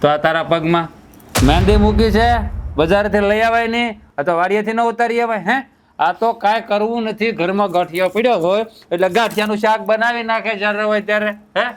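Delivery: mock her as too lazy to fetch vegetables; sarcastic scolding. Husband sneers at his wife over the dinner, angry sarcasm.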